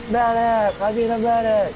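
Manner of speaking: high yell for a medic; man down shout. Retold or imitated. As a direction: call out for a medic. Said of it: "They're like".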